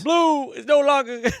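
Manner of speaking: high, slow put-on voice; drawn out and lofty like a stoic author; mock Ryan Holiday, high and slow; Ryan Holiday impression. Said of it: "Is that your impression of Ryan Holiday".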